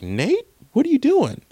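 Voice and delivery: high, startled call of disbelief; shocked protester. Retold or imitated. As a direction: cry out to a friend caught marching. Black protester calls out to Nate.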